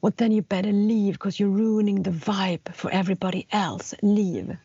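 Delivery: firm, mildly roared retold order; imitated roar. Teacher ordering the student out, imitated angry roar. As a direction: imitate a teacher throwing someone out. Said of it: "så här ryter hon ifrån".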